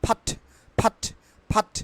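"ফাট" with breath-puffed P, no R; silent R. Shown as a demonstration. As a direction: say "ফাট" as aspirated "phaat". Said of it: "আর will be silent". ("ফাট", R ছাড়া ফ দিয়ে)

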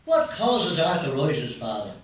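lightly voiced drunk, slow start; slow question from a man with drink in him; a hint of tipsy slowness. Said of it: "And this drunk".

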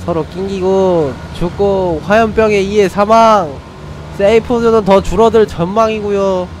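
brisk play-by-play caster voice; sports commentator. Acted. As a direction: call the match like a live caster. Mock commentary on game.

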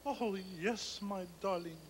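soft, low lover's answer; quiet. Acted. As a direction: answer the beloved gently, voice held down. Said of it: "now I will speak quietly".

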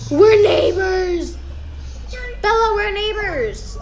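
thrilled cry of discovery; excited. Real, not acted.

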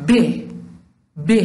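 isolated consonant ب voiced as a short b; teacher sounding the letter ب. Shown as a demonstration. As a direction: sound out ب on its own. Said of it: "ب یک حرف بی صداست".

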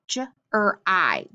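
"j-er-I" slowly, ending in long I as in "eye"; sounded out. Shown as a demonstration. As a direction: break "j-er-I" into three separate sounds. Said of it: "can say E or I".

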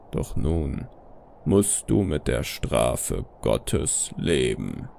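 very low, slow stern father figure; strenger Vater. Acted. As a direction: pronounce judgment in a deep, slow voice. Vater antwortet auf das Flehen. (strenger, tiefer, langsamer Vater)

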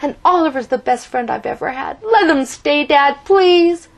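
high, loud urgent plea; earnest begging boy; pleading. A narrator's reading. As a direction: beg Dad not to tear it down. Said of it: "Ricky pleaded".

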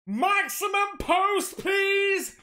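high, slow, drawn-out call; high sung-out greeting; sing-song catchphrase. Acted. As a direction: belt out the mail catchphrase like a show opener.

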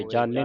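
ਜਾਣੈ said as "jaane"; wrong "e" ending. Shown as a demonstration. Teacher quizzing students, ਜਾਣੈ with close final "e". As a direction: close the last vowel of ਜਾਣੈ to "ay". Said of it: "ਜਾਣੈ ਨਹੀਂ ਪੜ੍ਹਨਾ".

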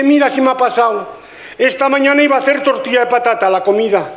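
a woman telling her friend her husband died, in mock distress; mock tragic woman. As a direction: tell the disaster like a melodramatic neighbour.

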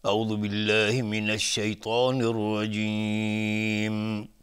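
slow chanted istiadha; Quran recitation. Shown as a demonstration. Teacher opening recitation in slow chant. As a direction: draw out each word in measured recitation.

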